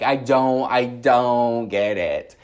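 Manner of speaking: loud, drawn-out exasperation; exasperated. Retold or imitated. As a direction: stretch it out in loud disbelief. Exasperated venting in the retelling.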